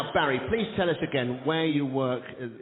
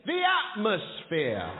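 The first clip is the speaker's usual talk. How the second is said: slow response line; 4 semitones higher, much slower than usual. Shown as a demonstration. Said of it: "And you all say".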